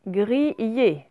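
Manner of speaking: "Griller" sounded out slowly as gri-yé; "Griller" drawn out for a reading lesson; word read syllable by syllable. Shown as a demonstration. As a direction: read "Griller" carefully, clear y glide. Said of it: "on va lire chaque mot".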